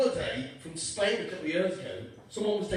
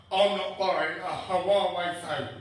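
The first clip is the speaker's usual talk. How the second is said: slow, firm mock mum refusal; a hint of an indignant mum, slowed down; stubborn mum; 2 semitones lower, 3 dB louder, slower than usual. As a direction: dig in like a stubborn mother. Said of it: "There you go, Mum".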